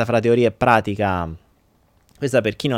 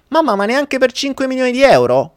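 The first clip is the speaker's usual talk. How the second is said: put-on child asking; 11 semitones higher, 3 dB louder than usual. Pierino asks mother.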